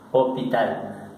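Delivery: "hospital" sin pronunciar la S, o-pi-tal; S muda. Shown as a demonstration. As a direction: say "hospital" the French way, dropping the S. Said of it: "quitaron la S". ("hospital" con la ese muda, o-pi-tal)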